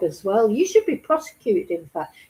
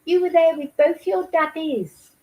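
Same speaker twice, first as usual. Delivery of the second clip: mock sing-song talk to a baby, higher; condescending; 4 semitones higher than usual. Host mimicking a social worker addressing baby Preston, condescending. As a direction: read it as if patronising a toddler. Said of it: "That is so condescending".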